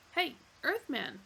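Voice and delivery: taunting. Acted. Zaphod taunting.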